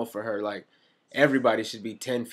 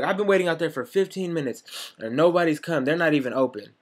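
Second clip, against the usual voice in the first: imitating upset customer; 5 semitones higher than usual. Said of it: "she's like".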